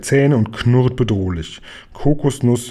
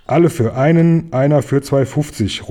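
calling out; 2 semitones higher than usual. Acted. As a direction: call it out like a motto. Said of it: "ruft Oskar".

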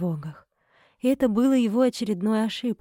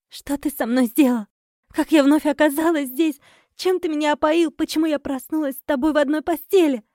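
raised, higher angry questions; angry demand; 6 semitones higher, 5 dB louder than usual. Acted. Wife accusing her husband, angry and high. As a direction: demand answers, furious and high. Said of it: "со злостью смотрела".

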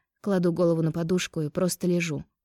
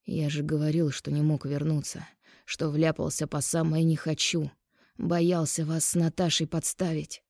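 тихий голос мужа; 2 semitones lower, 4 dB quieter than usual. Acted. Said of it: "тихо позвал Берцев".

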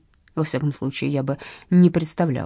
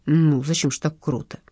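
plain reading voice

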